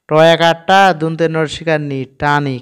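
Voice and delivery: টানি spelled quickly as টা plus নি, then blended; spelling it out. Shown as a demonstration. Teacher spells টানি for the learners. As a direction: rattle off the letters, then say টানি. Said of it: "তাহলে কি পড়ব?".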